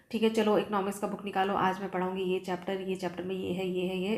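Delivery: rattled off quickly with no rise or fall in the tune; flat monotone. Shown as a demonstration. Teacher showing students a flat delivery with no intonation. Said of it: "इसमें कुछ intonation नहीं है".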